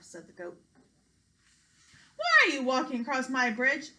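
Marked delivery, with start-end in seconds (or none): 2.2-3.9 loud yelling troll; monster yell. Acted. Troll yells at big goat on bridge, loud. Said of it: "yelled the monster".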